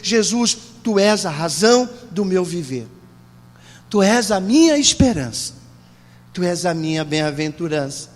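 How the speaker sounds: low, measured prayer after the climax; deep, reverent address to Jesus; solemn declaration of faith. Shown as a demonstration. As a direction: bring it down low, pausing between phrases. Models believer's solemn declaration after shouting.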